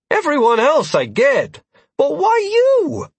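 high, disbelieving protest; incredulous. Acted. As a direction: ask it in mock betrayal. Lear protests to the cat.

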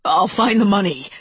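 acted frantic pleading. A narrator's reading. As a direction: beg urgently for another chance. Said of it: "he pleaded".

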